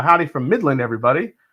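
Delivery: ordinary talk, nothing marked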